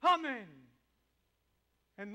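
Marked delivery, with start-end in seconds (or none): 0.0-0.5 loud, higher amen; shouting back. Acted. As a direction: fire it straight back. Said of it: "comes right back".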